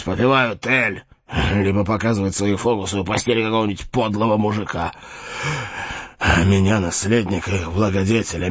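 put-on bitter, raging old knight; dying knight. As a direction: rail against the monks, dying.

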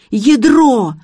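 high, loud yell of alarm; panicked shout; howling. A narrator's reading. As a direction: cry out over the dropped treasure. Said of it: "завопил Гарик".

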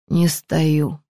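usual speaking voice

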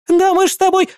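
very high, broken-off shriek; sputtering wife. A narrator's reading. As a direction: sputter in disbelief. (жена задыхается от возмущения)

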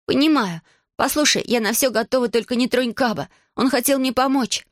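put-on high, tearful girl's plea; pleading girl. Girl pleading with the dragon to spare her friend, high. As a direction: beg the dragon in a young girl's voice.

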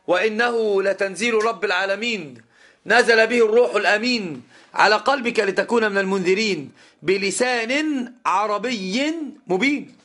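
slow, drawn-out chanted recitation; Quran recitation. Shown as a demonstration. Teacher reciting the verse for his students, slow and chanted. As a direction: intone the verse in measured tajwid style, stretching the end. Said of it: "قال الله جل في علاه".

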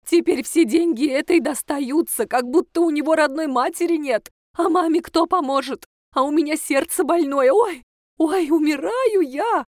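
hammed-up dying groan; dramatic self-pity. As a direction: play the martyr mother clutching her heart. Mother complaining, fake dying.

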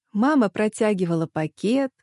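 plain reading voice

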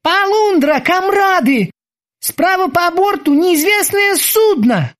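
high, slowed sailor's alarm call; loud alarmed cry. A narrator's reading. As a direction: shout the warning across deck. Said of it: "громко воскликнул". (громкий тревожный возглас)

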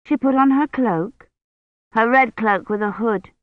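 lightly voiced little girl chiming in; eager little girl. A narrator's reading. Agnes adds to Kivrin's tale, eager little girl. Child Agnes joins in telling.

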